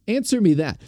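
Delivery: high-pitched mock indignation; mock outrage. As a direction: demand answers like a self-important amateur sleuth. Mock courtroom challenge to the judge.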